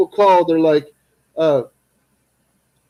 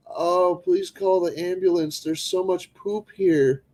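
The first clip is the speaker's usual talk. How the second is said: mock panicking victim; slower than usual. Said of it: "pranking scam caller".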